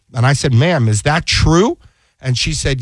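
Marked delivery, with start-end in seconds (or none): 0.5-1.8 incredulous. Retold or imitated. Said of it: "and I couldn't hold back".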